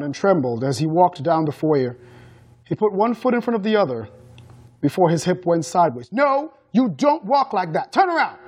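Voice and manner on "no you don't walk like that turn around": high, angry correction; roared order. A narrator's reading. Mother correcting her son's walk, roaring. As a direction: raise the pitch sharply into the final command. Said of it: "she roared".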